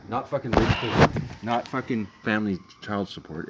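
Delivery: slow and loud, hitting each not; emphatic, hammering. Real, not acted. Boyfriend lecturing his girlfriend that crack is the issue, slow and hammering. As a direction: pound every word home.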